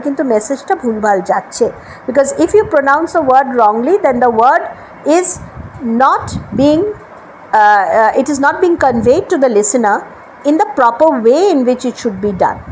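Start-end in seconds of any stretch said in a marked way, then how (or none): 2.1-12.6 slow, deliberate English; slow English explanation. Shown as a demonstration. Teacher explaining slowly to Bengali students. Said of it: "teacher switches to slow English".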